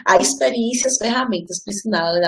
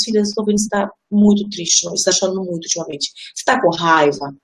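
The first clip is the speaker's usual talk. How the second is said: gentle questioning; 2 semitones lower than usual. Retold or imitated. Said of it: "abracei ela e falei".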